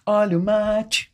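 slow drawn-out vendor cry; singsong beach vendor call. Retold or imitated. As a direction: call it out like a beach mate seller. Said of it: "Lembra dessa propaganda?".

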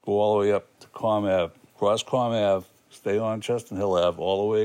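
Boston "Comm Ave" and "cross" with rounded vowels; Boston accent. Real, not acted. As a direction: speak it in a local Boston accent. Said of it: "But locals?".

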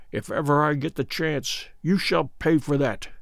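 soft muttered threat; muttered under breath. Acted. Good threatening Scragga under his breath, soft muttered threat. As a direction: mutter it so no one hears. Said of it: "I heard Good mutter beneath his breath".

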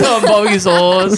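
laughing mock guy voice; imitating while laughing. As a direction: echo the odd way, laughing. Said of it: "Why do you say barbecue sauce like that".

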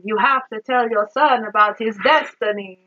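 lightly voiced mock Italian accent; a hint of stagey Italian accent; over-the-top Italian accent. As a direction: imitate a hammy movie Italian accent. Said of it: "I'm doing this over-the-top Italian accent".

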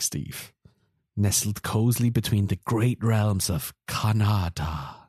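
slow, cozy bedtime story telling; storyteller narration. Acted. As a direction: spin it like a fireside tale.

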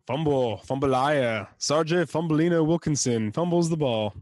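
lightly imitated SNL-style announcer riff; playful sketch-comedy nickname riff, lifting at the end; Rob Schneider. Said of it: "pulls out a little bit of the S N L".

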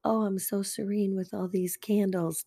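playfully serene, candles-and-calm tone; lightly mock-serene podcast voice. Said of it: "I like how I went from".

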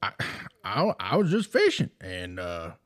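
hammed-up Mississippi country drawl, husband on the phone; a Mississippi fisherman telling his wife about aliens; Mississippi accent. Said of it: "in my best Mississippi accent I can".

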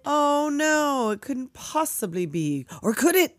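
mock suspense.

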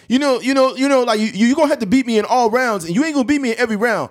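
high, loud cocky boxer; hammed-up confident fighter bragging; mock Floyd. Floyd boasting to Conor, high and loud. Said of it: "Floyd be like".

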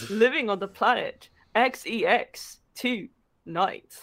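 mock-epic back-cover narration; theatrical narrator with measured phrasing; story blurb read. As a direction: read it like a pulpy trailer, pausing for effect. Reads a comic romance blurb aloud.

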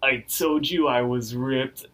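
slow, mildly feeble boast; weakly. Retold or imitated. Skinned Muscle Man flexing before he falls, imitated weakly. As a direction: strain it out slowly, imitating someone fading. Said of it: "he says all weakly".

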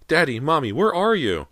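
put-on high, loud lost little boy; small child's cry. A narrator's reading. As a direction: cry out for your parents in a child's voice. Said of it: "The tiny cry made everyone jump".

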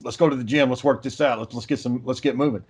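lightly voiced low wrestler, reassuring; Hulk Hogan. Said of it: "And Hogan's like".

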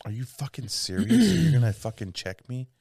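mock indignant challenge; put-on outrage, moderately pitched; self-righteous indignation. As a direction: act righteously offended. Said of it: "you gotta get real fucking, uh, uh, like, self-righteous with it".

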